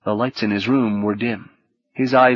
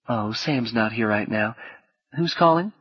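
soft woman's voice, lightly southern US; slight southern accent; 5 dB quieter than usual. Acted. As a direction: answer softly with a hint of Southern. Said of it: "tinged with a slight southern accent".

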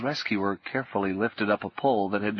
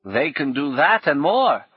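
put-on higher, louder old woman with a rueful edge; 5 semitones higher, 5 dB louder than usual. Old woman answering Paul, rueful and higher. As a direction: answer like a defeated old crone. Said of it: "Her laugh was rueful".

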